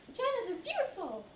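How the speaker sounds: high, exultant proclamation; exclaimed slogan. Acted. Performer proclaiming body pride to her audience, high and exultant. Mock rallying slogan in monologue.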